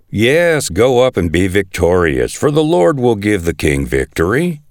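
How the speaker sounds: lightly mocking, echoing the prophets' promise; mock agreement, a touch of sarcasm; sarcastic. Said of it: "Micaiah replied sarcastically".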